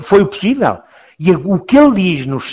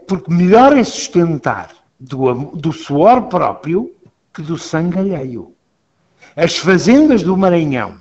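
slow, deliberate recitation with weighty pauses; reading a sermon aloud. Acted. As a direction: read the quotation out solemnly, phrase by phrase. Reads sermon quotation aloud.

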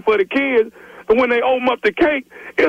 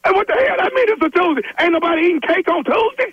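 angry raised voice; 5 semitones higher than usual. Real, not acted. Heated phone argument.

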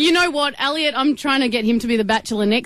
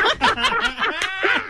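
high burst of laughter after the reveal; relieved laugh; 13 semitones higher, 4 dB quieter than usual. Real, not acted. Prank reveal, breaks into laughter.

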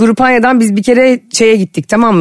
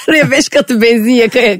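laughing. Real, not acted. Laughing while telling.

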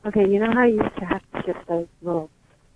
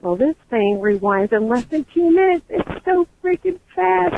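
groggy from anesthesia; 3 semitones higher than usual. Real, not acted. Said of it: "She's so high right now".

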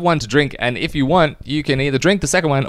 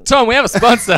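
ad read voice; 10 semitones higher, 5 dB louder than usual. Acted. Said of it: "Good ad read".

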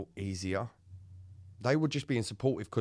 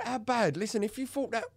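retold angry outburst; 13 semitones higher than usual. Retelling telling off his colleagues.

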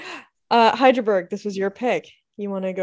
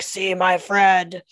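slow creepy mock; 3 semitones lower, much slower than usual. Quoting killer's creepy line.

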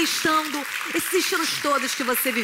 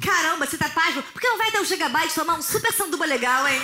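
put-on perky teen-soap slang delivery; hammed-up soap teenager; Malhação teen-soap character. Teen invites a shocked pal for a sandwich, Malhação style. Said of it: "Malhação".

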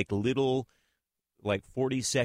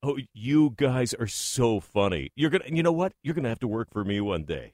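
Rick Dees impression. DJ greeting colleagues in the hallway, hammed-up host impression. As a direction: stretch it out like a showy DJ. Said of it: "Here's he, what he would say to you in the hallway".

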